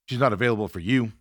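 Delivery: mildly snotty imitation; a touch of curt dismissiveness, retold; crappy attitude. Host imitating Joe refusing his call, mildly crappy tone. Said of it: "Like, all crappy".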